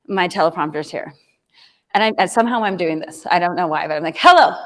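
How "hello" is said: a stiff, put-on presenter hello; weird stiff greeting. First video, a nervous speaker greets the camera in an odd put-on voice. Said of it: "talking in the weirdest voice ever".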